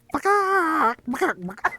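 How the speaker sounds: high, loud chicken squawk; angry chicken. Pretend. Game master losing patience with the map, angry chicken squawk. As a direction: squawk the swear word like a furious hen. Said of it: "I've become a chicken".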